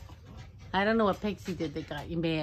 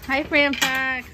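high sing-song greeting; 6 semitones higher, 4 dB louder, much slower than usual. Real, not acted. Greeting the fox slowly.

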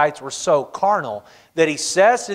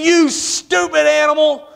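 higher, slow, mock-angry yell at the donkey; 8 semitones higher than usual. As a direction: lash out at the stubborn donkey. Balaam beating the donkey.

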